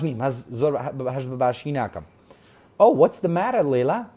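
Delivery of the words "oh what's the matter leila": a hint of a worried friend, louder and higher; Tracy concerned. Tracy asking sick Lily what's wrong, mild concern. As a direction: read Oh, what's the matter with rising concern. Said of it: "Tracy's line read".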